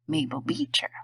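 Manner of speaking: breathy whisper of her own name. A narrator's reading. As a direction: whisper it shyly.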